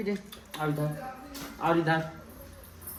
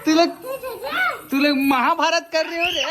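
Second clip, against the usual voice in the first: raised, higher-pitched telling-off; exclaiming scold; 6 semitones higher than usual. Real, not acted. Adult to squabbling children, raised scolding exclamation. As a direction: exclaim at them for fighting, voice raised.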